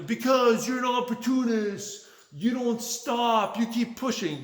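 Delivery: high, shouted mock of his wife's accusation. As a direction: shriek her complaint back at her, mocking.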